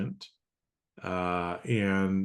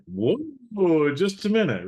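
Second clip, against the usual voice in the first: much higher, louder startled stop; startled whoa; 10 semitones higher, 5 dB louder, slower than usual. Retold or imitated. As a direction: pull him up short in alarm. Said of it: "the other person was like".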